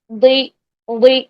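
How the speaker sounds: "دوئی" as one heavy syllable, back Dad plus ee; Dad with kasra. Shown as a demonstration. Teacher modelling simple kasra, "دوئی" as a heavy Dee. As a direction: press the tongue sides back for "دوئی". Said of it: "simple کسرہ".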